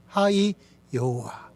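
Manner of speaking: slow call-and-response. Shown as a demonstration. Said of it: "같이 한번 말해볼까요".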